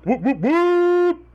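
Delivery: high, slow whooping woots; excited cheer. Acted. Hype cheer for the show.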